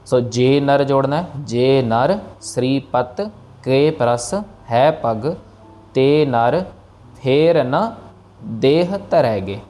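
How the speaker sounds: जे नर Shripat said in short pieces with pauses; paused, divided phrase. Shown as a demonstration. Teacher dividing the line with pauses for practice. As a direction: break the line into small pieces. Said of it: "ठहराव दे के बोलना है".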